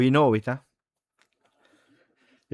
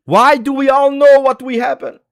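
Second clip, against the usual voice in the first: much higher and louder, a desperate wail; anguished cry; 14 semitones higher, 9 dB louder than usual. Real, not acted. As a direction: cry out the question in despair. Fan repeats in anguish.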